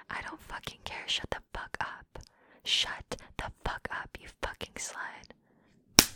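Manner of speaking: hiss-free hushed contempt, slowing at the end; whisper. Acted. Dismissing her partner in a harsh whisper.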